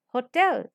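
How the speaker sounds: "hotel" with the weight on "tel"; stress on second syllable. Shown as a demonstration. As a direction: press on the final "tel" of "hotel". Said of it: "We are stressing tel".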